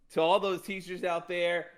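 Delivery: put-on deep Southern accent quote; Southern drawl. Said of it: "in, like, deep Southern drawl here".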